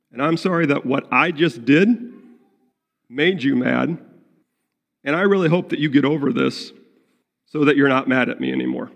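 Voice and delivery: sorry only that they're mad, pushing past it fast; defensive non-apology. Shown as a demonstration. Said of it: "worldly sorrow says".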